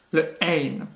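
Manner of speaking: "ein" started from the back of the throat; deep throat sound. Shown as a demonstration. Teacher introducing a very difficult letter, deep throat sound. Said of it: "comme un R qui vient de fond".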